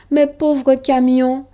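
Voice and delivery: slow, high mournful moan. Acted. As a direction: drag out the grief. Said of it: "gémit Thomas".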